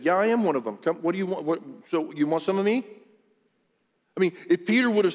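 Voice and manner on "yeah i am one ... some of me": defiant. Acted. Acts Peter boldly defying accusers.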